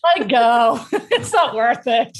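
words breaking up with laughter; laughing advice. Real, not acted. Experienced mom advising younger mom, laughing helplessly.

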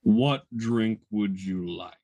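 slow, low booming voice of brimstone; booming armored bartender. Acted. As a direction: boom it out like a fire-and-brimstone giant. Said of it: "in this booming voice that speaks of fire and brimstone".

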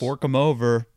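gleeful greedy snarl; greedy demand. Pretend. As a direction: demand the cash with relish.

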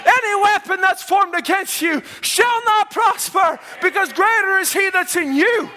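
fervent preaching. Acted. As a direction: build it like a revival preacher. Preaching at full force.

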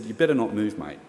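level, sober imitation of a lifesaver; understated grave warning, retold; serious. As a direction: drop the jokes and warn them plainly. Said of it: "to serious guy, real quick".

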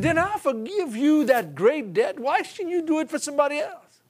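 king confronts the unforgiving servant; stern king. Retold or imitated.

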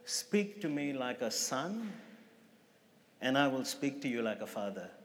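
soft and simple, with long pauses; a retold hushed, unhurried voice; still, quiet voice. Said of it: "so simple, still, quiet".

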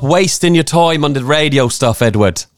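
high, put-on scolding mum voice; nagging mum impression. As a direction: nag your son in a high voice. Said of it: "we did your mum last week".

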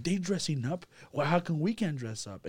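hammed-up mother pointing out the pastor; mimicking mom. Son imitating his mom urging them to dress up, high mock insistence.

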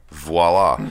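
mock French voila. Shown as a demonstration. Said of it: "Or as the French say".

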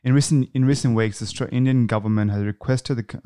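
measured, even reading from the page; news read-aloud. Acted. Host reads a news item to the panel, measured read-aloud. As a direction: read the report out plainly.

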